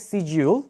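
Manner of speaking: British শিডিউল said as "si-jiul"; British pronunciation. Shown as a demonstration. Teacher comparing national forms, British শিডিউল as "si-jiul". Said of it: "ব্রিটিশরা বলে এটাকে".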